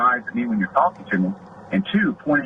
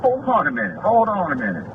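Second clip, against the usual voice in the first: mock exasperated protest; 6 semitones higher than usual. Cop retelling confronting the man.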